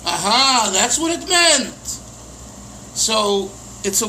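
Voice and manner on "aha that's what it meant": mild delighted aha; aha moment. Retold or imitated. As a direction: savor the discovery. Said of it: "and you'll say".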